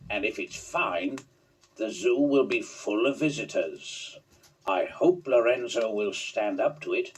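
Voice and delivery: a hint of a pleased older boss; zoo director.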